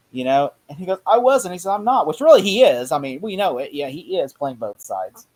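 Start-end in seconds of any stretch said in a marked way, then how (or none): 1.1-2.1 imitating. Penguin denying under interrogation.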